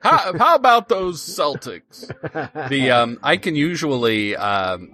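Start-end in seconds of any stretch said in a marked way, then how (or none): 0.0-2.1 higher, slower, lightly hammed-up Boston accent; mock Boston accent. Guest dropping local references to Boston listeners, mock Boston accent. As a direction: try on a Boston accent to win over locals. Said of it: "in our best Boston accent".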